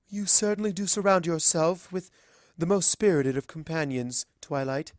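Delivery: lightly voiced regal princess, wistful; a hint of a fond, sorrowful queen; Celestia, gently sad. Celestia speaks sadly.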